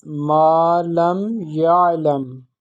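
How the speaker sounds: "ma lam ya'lam" slowly, flowing over the ayn; slow teaching demo of "ma lam ya'lam", ayn unbroken; no sudden pause. Shown as a demonstration. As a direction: model "ma lam ya'lam" joined, without stopping on the ayn. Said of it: "there will be no a sudden pause".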